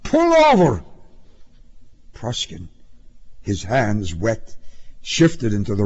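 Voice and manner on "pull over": high, forceful shout of a traffic cop; husky shouted command; loud husky cry. A narrator's reading. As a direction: bellow it as an urgent order. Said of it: "husky voice cried".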